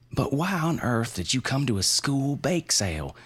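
high, pressing, insistent voice; shrill insistent question. Acted. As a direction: push the question up high and hard. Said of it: "Her persistence is shrill".

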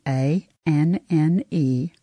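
A N N E spelled letter by letter, slowly; spelling out letters. Shown as a demonstration. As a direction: spell out A N N E one letter at a time. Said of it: "let me spell some things for you".

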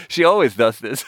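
a half-hearted shout, imitating the uncle; mock exasperated shout. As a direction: hammer "always" as the fed-up uncle. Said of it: "He's like".

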